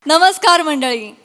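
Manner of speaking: bright announcer's welcome, slowing on the show name. Acted. Host welcoming viewers to the comedy show, announcer voice.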